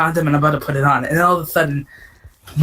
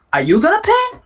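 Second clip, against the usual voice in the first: mock high squeak; 13 semitones higher than usual. Squeaky mock question to date.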